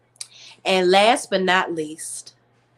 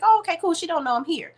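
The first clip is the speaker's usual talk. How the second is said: mock deflated; 9 semitones higher, faster than usual. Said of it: "I was like".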